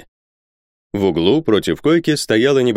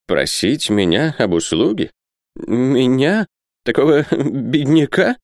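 put-on slow, halting, rising old man's whimper; tearful complaint; 6 semitones higher, slower than usual. A narrator's reading. Isaac asked for a favour, tearfully complaining. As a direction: wail it in broken questions. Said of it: "плакался старик".

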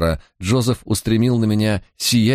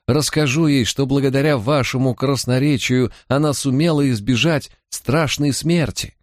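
calling after them; 7 semitones higher than usual. A narrator's reading. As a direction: lift the pitch high as if calling after someone. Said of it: "крикнул он нам вслед". (высоким голосом, будто кричит вслед, но негромко)

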